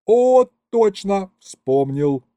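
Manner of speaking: high, loud burst of sudden recall; light up as it comes back to you; overjoyed exclamation; delighted. A narrator's reading. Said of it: "обрадовался я".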